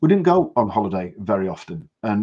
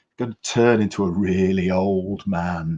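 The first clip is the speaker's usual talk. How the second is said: put-on grave, theatrical, very dramatic pronouncement. Quoting an auntie about a man who appeared: retelling a very dramatic line. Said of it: "she said it in this kind of very dramatic voice".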